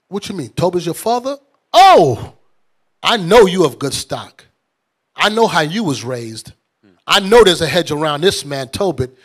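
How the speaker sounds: loud, delighted recognition, rising into a near shout; bursting with joy at meeting his kinsman's son; an overjoyed uncle greeting family; excited. Retold or imitated. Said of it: "He said".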